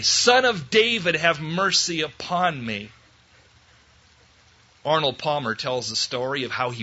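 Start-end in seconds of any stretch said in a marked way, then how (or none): 0.0-2.9 loud tenacious cry. Acted. Bartimaeus refusing to be quieted, crying out loudly. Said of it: "all the more loudly".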